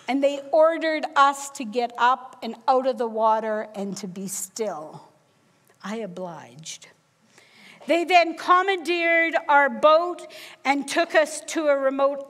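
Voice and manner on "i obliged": hushed, breathless whisper; whispered compliance. Retold or imitated. To the knife-wielding pirates, a frightened whisper. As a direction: barely breathe the words out, scared still.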